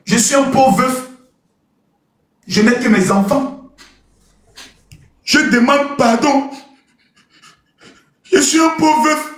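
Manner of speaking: slow, drawn-out mock pleading; kneeling plea. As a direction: beg pardon as a poor widower, very slowly. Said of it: "Je suis venu m'asseoir à genoux". (supplication lente d'un pauvre veuf à genoux)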